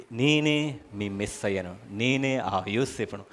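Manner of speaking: slow, low-pitched declaration; solemn revelation. Acted. Christ telling Israel he is their Messiah, slowly and solemnly. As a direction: reveal yourself word by word, unhurried. Christ revealing himself to his people.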